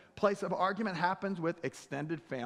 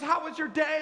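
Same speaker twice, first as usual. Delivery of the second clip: higher and louder, sing-song sweetness; sugary dream wife; 9 semitones higher, 5 dB louder than usual. Acted. Pastor voicing dream wife greeting him at the door, sugary and higher. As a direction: gush it like a perfect TV wife.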